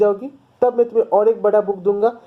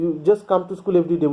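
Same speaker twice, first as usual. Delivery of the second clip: slow story reading; much slower than usual. A narrator's reading. Reads English text slowly.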